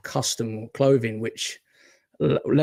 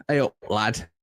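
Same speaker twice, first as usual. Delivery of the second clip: lightly demonstrated Northern English greeting; casual Northern English accent. Shown as a demonstration. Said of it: "That's how Northerners talk".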